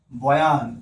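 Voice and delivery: বয়ান with a long open a in the second syllable; stretched vowel. Shown as a demonstration. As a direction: lengthen the a of বয়ান. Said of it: "বয়ন থেকে বলি".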